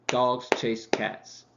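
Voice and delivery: slow, three heavy beats; stress-timed demo. Shown as a demonstration. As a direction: say "Dogs chase cats" slowly, one beat per word. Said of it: "It's the same rhythm".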